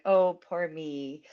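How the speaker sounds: slow, hammed-up poor-me whine; mock self-pity. Feeling sorry for herself on Guru Purnima, mock self-pity. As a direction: play the pity card, drawn out.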